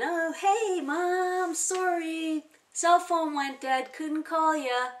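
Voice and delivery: put-on high, loud, carefree teenage excuse; breezy teen son. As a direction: toss off the apology like a careless teen. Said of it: "The boys would come in".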